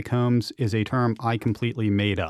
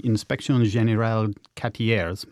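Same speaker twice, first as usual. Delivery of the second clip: French accent. Real, not acted. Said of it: "My French accent is horrible".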